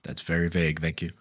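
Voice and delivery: dry sarcastic thanks; deadpan, mocking gratitude. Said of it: "that was sarcasm".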